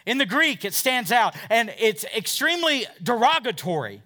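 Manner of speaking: loud, high preaching voice; a pastor preaching hard on Mark's Greek; fiery preaching. Acted. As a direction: hammer the teaching home to the congregation. Preaching at full force.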